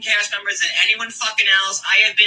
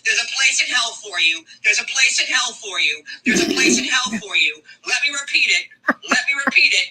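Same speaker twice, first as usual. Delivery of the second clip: lightly mimicked repetitive rant; mock her by repeating each phrase; a touch of imitation, insistently repeated; a singer; 3 semitones higher than usual. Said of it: "let me say it like fucking Britney".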